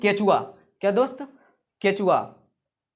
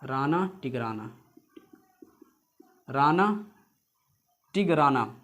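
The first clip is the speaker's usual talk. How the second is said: slow dictation; 5 semitones lower, 3 dB quieter than usual. Shown as a demonstration. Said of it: "वैज्ञानिक नाम".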